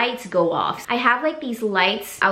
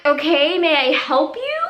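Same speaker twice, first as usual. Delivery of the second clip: higher, clipped-polite question; pointed politeness; 6 semitones higher than usual. Retold or imitated. Questioning the snooping neighbor, pointed higher voice. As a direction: ask politely but with an edge. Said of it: "And I'm like".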